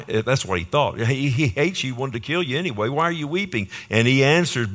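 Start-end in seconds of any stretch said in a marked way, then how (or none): 1.0-3.7 higher-pitched, lightly acted bafflement; baffled questioning. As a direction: question him as if it makes no sense. Voices Hazael's bafflement at weeping.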